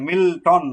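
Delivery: "মিল্টন" in two beats, light মিল, stressed টন; stress on second syllable. Shown as a demonstration. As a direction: split "মিল্টন", weight on the টন. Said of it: "পরেরটা জোর আসতেছে". ("মিল্টন"-এর টন অংশে জোর)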